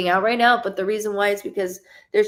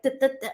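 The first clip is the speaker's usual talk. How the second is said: quick, higher-pitched repeated syllables; stammered duh-duh-duh; 5 semitones higher, much faster than usual. Shown as a demonstration. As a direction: demonstrate being scattered with stuttered duhs. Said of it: "That's why I'm, like".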